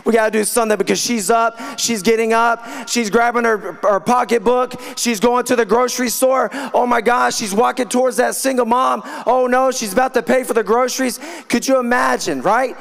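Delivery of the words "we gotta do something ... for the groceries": lightly voiced worried devils, pitched up; mock screaming devils. Devils reacting to her heading for the single mom, mock screaming. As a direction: imitate devils fretting, raised pitch without real shouting. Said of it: "you're gonna hear 'em scream".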